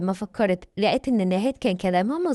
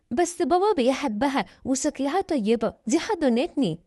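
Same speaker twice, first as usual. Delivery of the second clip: higher-pitched little sister; lightly voiced young child, pitched up; little girl's voice; 4 semitones higher than usual. Youngest sister defends the new wife, childlike.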